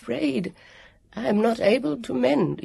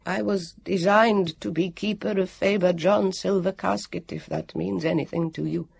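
a guardian who has failed his task; mournful warrior; 4 semitones higher than usual. Acted. Warrior after sighing.

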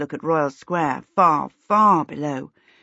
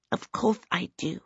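retort; 7 dB quieter than usual. A narrator's reading. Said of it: "Twinkle retorted".

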